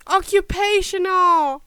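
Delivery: loud surprised exclaim; startled exclamation. Real, not acted. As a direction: blurt it out in surprise. Reading words aloud, surprised.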